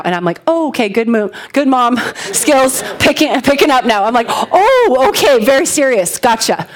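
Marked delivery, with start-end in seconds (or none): 0.5-4.0 wry, half-laughing self-mockery; sarcastic self-mockery. Mom retelling the nurse's call, wryly mocking herself. Mom mocks her own slow reaction. 4.3-6.7 mock sudden alarm. Mom on the phone with the nurse, mock-startled and serious.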